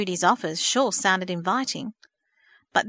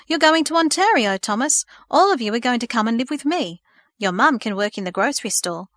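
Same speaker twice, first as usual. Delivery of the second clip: eager; 3 semitones higher, 5 dB louder than usual. Acted. Aunt breaks the news eagerly.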